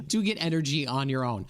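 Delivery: real laugh breaking in as you talk. Real, not acted. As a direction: chuckle into the words. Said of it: "I'm sorry I'm laughing".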